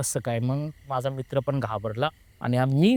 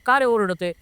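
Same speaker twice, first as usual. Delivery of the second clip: startled question; 5 semitones higher, 4 dB louder than usual. Retold or imitated. Startled question to screaming friend.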